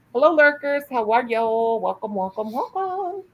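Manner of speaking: bright, high greeting to the viewers; cheerful welcome. Real, not acted. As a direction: sing out a welcome to the lurkers.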